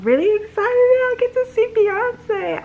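high, tearful excited voice; sobbing through happy words; crying while excited. Real, not acted. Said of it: "Why am I crying?".

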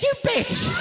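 very high-pitched mock screech; acted yell. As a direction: yell it as a shrieked insult in a story. Acted yell in neighbour story.

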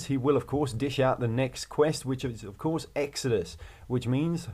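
put-on a light, half-done Australian accent. Imitating the Australian quest giver, lightly Australian accent. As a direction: slip lightly into an Australian twang. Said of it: "in a very Australian accent".

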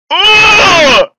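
loud grossed-out ugh; disgusted groan. Real, not acted. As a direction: recoil in disgust. Sees a mountain of ground beef.

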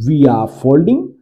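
very slow, word by word; slow model sentence. Shown as a demonstration. Teacher slowly modelling the sentence for students. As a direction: spell it out slowly for the class. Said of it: "इसमें ING जुड़ गई दोस्तों".

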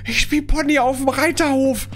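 high, tense and rattled; jittery, wants to quit; scared horror game streamer. Real, not acted.

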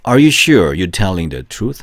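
teacher reading a drill sentence slowly and clearly; slow model reading. Shown as a demonstration. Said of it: "한 번 더 시작".

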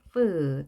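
"프" as a long English F with a light vowel; drawn-out F sound. Shown as a demonstration. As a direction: stretch the F sound in "프". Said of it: "F는 프였죠".

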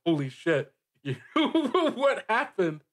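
surprised laugh that breaks high; laughing disbelief. Retold or imitated. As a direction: blurt it out through laughter, amazed. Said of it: "where you're like".

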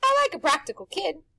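loud, high showman pitch; pushy grinning tempter; Rictus's brash voice. A narrator's reading. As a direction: sell it like a carnival barker. Rictus flatters Harvey.

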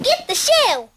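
high, loud shouted ad slogan. Pretend. Pretend TV commercial jingle.

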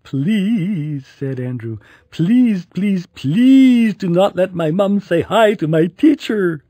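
high, whiny pleading. A narrator's reading. Boy begging mom to avoid the aunt, high whine. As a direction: beg in a high kid voice.

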